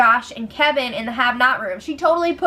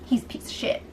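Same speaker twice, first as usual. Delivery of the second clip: whispered insult; 9 dB quieter, faster than usual. Retold or imitated. Group gossips about Mark.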